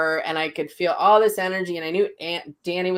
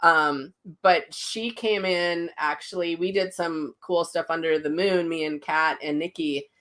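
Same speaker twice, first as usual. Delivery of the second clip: ordinary delivery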